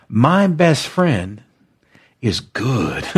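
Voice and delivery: slow, falling affirmation; slow call-and-response. Shown as a demonstration. Pastor leading listeners in a slow spoken affirmation. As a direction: say it slowly for them to repeat. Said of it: "Let's say it again".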